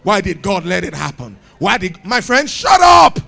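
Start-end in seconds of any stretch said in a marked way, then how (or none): 0.0-1.4 mock self-pity. Believer facing adverse circumstances, mock self-pitying complaint. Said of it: "and we start saying". 2.5-3.2 loud, high, abrupt shout; shouted rebuke. Acted. Preacher silencing a friend's complaint, shouted rebuke.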